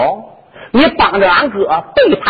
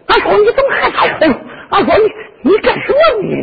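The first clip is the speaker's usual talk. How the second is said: high, fast, whiny mock cry; comic clown wailing; 12 semitones higher than usual. Clown Hu Ying wails at the princess, high and whiny. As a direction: wail 俺嫂 like a sulking clown, much higher. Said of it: "你再喊，再喊".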